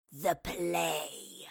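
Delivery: drawn-out, low rasping creature voice; snarling wraith. A narrator's reading. Wraith tells Marlowe what it wants, snarling. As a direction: rasp it slowly, with menace.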